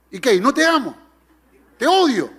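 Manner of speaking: angry husband. Retold or imitated. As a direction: snap back like an exasperated husband, hammed-up. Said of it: "enojado le dice".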